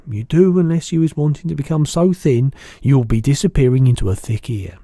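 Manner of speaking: loud giant character, lecturing; insistent BFG. A narrator's reading. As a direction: warn firmly in a giant's voice.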